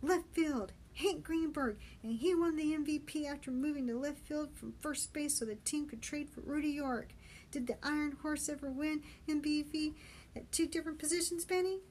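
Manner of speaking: insistent high-pitched challenge; triumphant Patty. Acted. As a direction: shout stats to win an argument.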